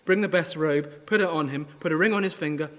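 a father calling for the robe, thrilled; joyful orders. Acted. Father excitedly orders his servants to prepare the homecoming.

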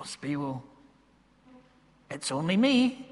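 soft, modest reply, retold; quiet protest. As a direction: brush off the praise quietly. Humbly answers the doctor in retold exchange.

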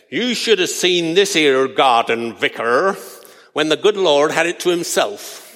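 a lightly put-on rustic gardener's accent; mock country gardener's accent, only hinted; fake rustic accent. Gardener telling the pious vicar off, in a mild fake rustic accent. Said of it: "put on a very fake accent".

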